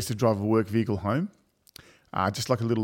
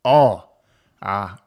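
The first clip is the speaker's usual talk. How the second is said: sheepish offer; 4 dB louder than usual. Retold or imitated. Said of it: "I go".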